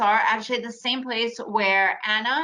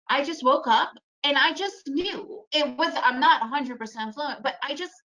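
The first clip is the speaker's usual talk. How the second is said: laughing; 3 semitones higher than usual. Real, not acted. Laughing while telling story.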